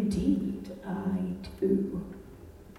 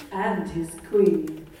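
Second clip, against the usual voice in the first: Queen Marie of Romania. Acted. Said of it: "Marie of Romania".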